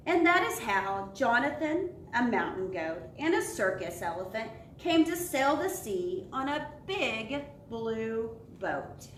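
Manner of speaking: lively storybook read with voices for each animal; animated children's story narration. A narrator's reading. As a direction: read it aloud like a bedtime picture book. Refrain of the story.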